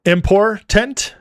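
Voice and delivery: slow, high "Important", last syllable a full "tent", rising; mockingly careful "Important" with a hard T; over-enunciated important. Shown as a demonstration. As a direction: stretch "Important" into im-por-TENT, as a question. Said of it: "Should I say important?".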